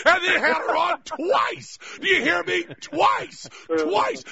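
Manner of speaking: high, emphatic disbelief; hammed-up excitement, pitched high; mock-incredulous rant. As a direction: hammer it home as astonishing news. Hyped mock rant about guest.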